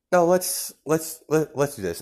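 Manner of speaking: mock heroic eagerness; eager All Might.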